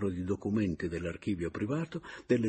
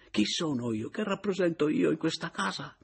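higher, exasperated protest; exasperated, raised voice; 9 semitones higher than usual. A narrator's reading. Caporale protests to Papiano, exasperated and raised. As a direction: voice lifted in intense exasperation. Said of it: "alzando un po' la voce con intensa esasperazione".

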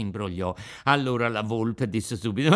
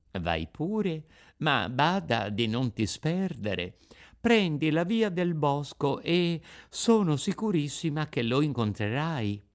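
gentle fairy; 4 semitones higher than usual. Acted. Fairy advises Pinocchio. (fata dolce e rassicurante)

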